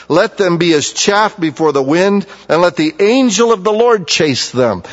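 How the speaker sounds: measured, solemn reading of the psalm; scripture reading. Acted. Preacher reading a psalm aloud to the congregation, solemn.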